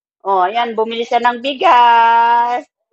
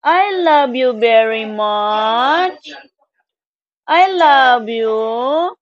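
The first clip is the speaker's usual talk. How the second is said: slow loving coo; slower than usual. Real, not acted. Cooing to a baby.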